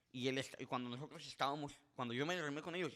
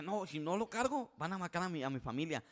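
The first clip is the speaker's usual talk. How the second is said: panicked plea; 5 semitones higher, 4 dB louder than usual. Retold or imitated. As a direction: plead for his family. Panicked man pleading. (súplica angustiada y fuerte)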